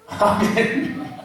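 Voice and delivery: ordinary delivery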